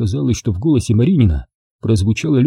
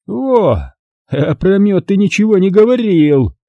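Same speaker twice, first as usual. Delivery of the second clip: higher, barked accusation; 9 semitones higher than usual. A narrator's reading. Commander catching the prisoner out, barking. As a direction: bark it at him. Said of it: "рявкнул комбриг".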